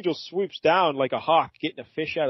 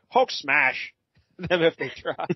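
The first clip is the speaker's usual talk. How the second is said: slow monster threat, stretched out; half-laughing brute battle cry; lightly voiced monster declaring war; Hulk; slower than usual. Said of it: "Hulk is like".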